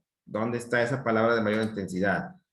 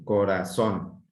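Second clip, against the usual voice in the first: "Corazón" said slowly toward "zón"; stress on last syllable; 2 semitones lower, slower than usual. Shown as a demonstration. Teacher recapping syllables for pupils, slow final-stressed "Corazón". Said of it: "la tercera sílaba y última".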